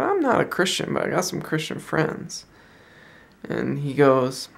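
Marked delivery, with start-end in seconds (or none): 0.0-2.5 soft, high attempt at a Scottish accent; imitated Scottish accent. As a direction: lightly mimic an older Scotsman, higher and softer. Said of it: "he's got this thick Scottish accent".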